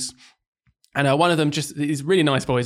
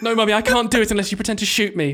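put-on kid voice; 8 semitones higher than usual. Teacher voicing a child pleading with mum, high and whiny.

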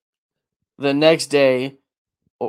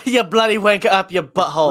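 put-on British accent; 4 semitones higher than usual. Trading mock British insults.

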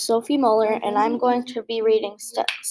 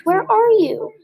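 high, loud little squeak; a lost baby bat calling out thin and high; 7 semitones higher, 4 dB louder, slower than usual. A narrator's reading. Lost baby bat calling for her mother, high squeak. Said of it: "Stella Luna squeaked".

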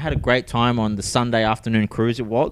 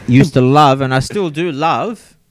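slow, drawn-out; mock earnest; 6 dB louder, slower than usual. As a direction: stretch it like a heartfelt confession. Mock sentimental confession.

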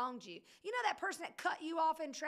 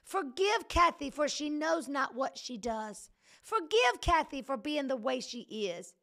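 mock pious prayer; 2 semitones lower, 5 dB louder than usual. Shown as a demonstration. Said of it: "our prayer would be".

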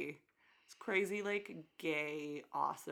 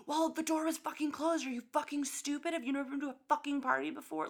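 higher-pitched mock rant, fast at the end; mock angry rant; 9 semitones higher, faster than usual. Imitating the guy yelling at her at the party. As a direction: ham up the drunk guy laying into her. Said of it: "lays into us".

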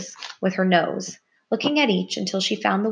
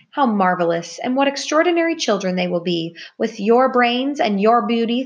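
overjoyed; 4 semitones higher, 4 dB louder than usual. Acted. Buck overjoyed at baby news.

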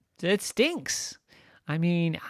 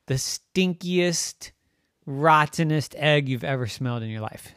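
drawn-out loud, savoring each stink; slow relish of gross details; slow gross-out build; 5 semitones higher, 7 dB louder, slower than usual. Acted. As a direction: linger on every disgusting item.

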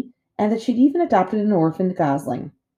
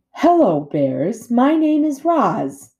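cheery robot greeting; 7 semitones higher, 6 dB louder, much slower than usual. A narrator's reading.

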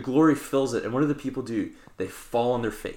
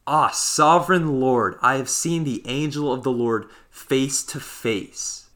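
exclaiming; 3 dB louder, slower than usual. Retold or imitated. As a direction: cry it out in awe, drawn out. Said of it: "he exclaimed".

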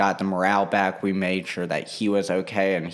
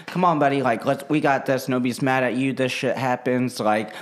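retold pep talk; 4 semitones higher than usual. Clapping, encouraging crying coworker.

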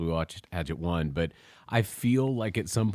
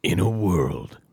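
booming trailer narrator opening; movie trailer voice; 5 dB louder, slower than usual. Shown as a demonstration. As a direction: announce it like an epic movie trailer. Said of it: "Can you do the movie voice blurb?".

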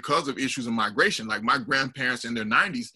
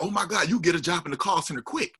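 higher-pitched, amazed exclamation; impressed, excited quote; 5 semitones higher than usual. Retold or imitated. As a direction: gush as an impressed acquaintance.

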